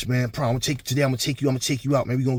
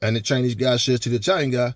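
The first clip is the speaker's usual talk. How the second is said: ordinary talk, nothing marked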